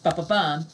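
"ba-ba-bum" with the beat on bum; sing-song "ba-ba-bum" landing on bum; anapest rhythm. Shown as a demonstration. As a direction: tap out "ba-ba-bum" weak, weak, strong.

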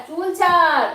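loud sharp "চুল ছাড়"; sharp let go. Real, not acted. Child pulls mother's hair. (চুল ছাড় জোরে ধমক)

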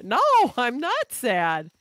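high, loud, slow denial; exaggerated, swooping insistence; drawn-out protest. Real, not acted. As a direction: protest it with stretched-out words. Protesting chat saying don't sound sad.

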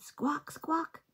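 high squawking parrot. Acted. Parrot's call in story.

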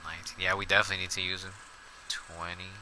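counting softly under breath; quiet counting. Real, not acted. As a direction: mutter the count to yourself.

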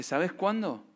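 a hint of the old pastor's soft voice; quiet retold quote. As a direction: hush down as you quote the pastor. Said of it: "Me dice".

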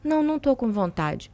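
lightly voiced deadpan husband turning her down; serious husband. Wife retelling her husband's refusal, serious and soft. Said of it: "ele, bem sério, falou assim".

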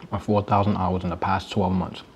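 talking with a mouthful of food; chewing while reading out the numbers; mouth full. Real, not acted. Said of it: "talk with my mouth full".

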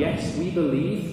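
high, slow mock crowd cheer; imitated shout of belief; crowd shouting back. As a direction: answer as a whole eager crowd. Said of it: "they're all shouting".

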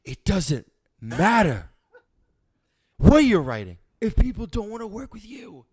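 theatrical monologue voice. Pretend. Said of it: "Say the first line".

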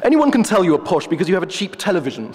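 a hint of a haughty professor; pompous wolf. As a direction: play the wolf as a self-important academic. The wolf lectures.

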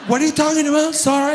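fake American English. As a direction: play a snob pretending to have forgotten Spanish, in American English. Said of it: "se les olvida el español".

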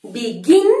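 "Begin" stressed on its last syllable, GIN; stress on final syllable. Shown as a demonstration. Teacher showing where the strong beat falls, stress on GIN in "Begin". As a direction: lean hard on GIN in "Begin". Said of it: "tiene el golpe fuerte en la última sílaba".

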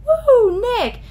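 high, loud fan squeal with a laugh; giggly, loud cry of a starstruck fan; excited cheer. Retold or imitated. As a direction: cheer his name across the room. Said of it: "and we were like".

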